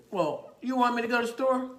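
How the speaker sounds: high, loud echoed question; humoring a child up high; talking to a child. Retold or imitated. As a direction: play up surprise for a little kid. Officer humoring a small child.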